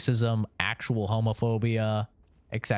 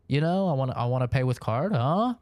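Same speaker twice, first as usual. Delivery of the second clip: put-on stereotypical Japanese accent. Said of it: "in a stereotypical Japanese accent".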